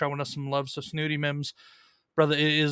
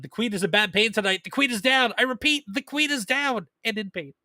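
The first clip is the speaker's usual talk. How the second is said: higher and louder, like a radio distress call; mock dramatic alert; 6 semitones higher, 3 dB louder than usual. Host reading wife's chat message as a mock mayday call. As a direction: read it as a hammed-up emergency report. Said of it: "Queen Comics Wife said".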